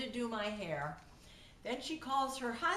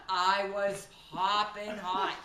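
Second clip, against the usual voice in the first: slow, emphatic words with laughter; laughing retelling; 6 dB louder, slower than usual. Real, not acted. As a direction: tell of your anger through laughter. Telling her anger while laughing.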